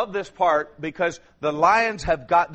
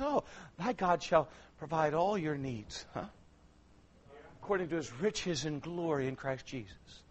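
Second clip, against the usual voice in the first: much softer, sneering voice of the devil; the devil whispering a mock promise; 3 semitones lower, 11 dB quieter than usual. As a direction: taunt the believer with scripture. Devil mockingly quotes scripture.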